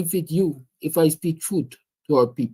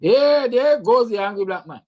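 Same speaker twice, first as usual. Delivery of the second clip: lightly mimicked onlooker, pitched higher; mock onlooker; 4 semitones higher than usual. Speaker imitates everyone who sees him as angry, mock onlooker. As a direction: mimic people labelling you, voice raised in pitch. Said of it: "everybody sees him as an angry black man".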